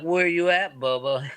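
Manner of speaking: put-on unbothered Mississippi pimp accent; calm Mississippi drawl. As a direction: ask it easy in a Mississippi drawl. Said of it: "just real calm".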